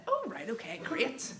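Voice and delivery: lightly imitated small-talk politeness; polite acknowledgement. Hearing he is from West Belfast, carefully polite. Acts out guarded polite reply.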